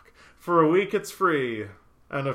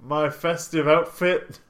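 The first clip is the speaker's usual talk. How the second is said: goofy clueless sitcom voice; 3 dB louder, much slower than usual. Pretend. Playing dumb about December.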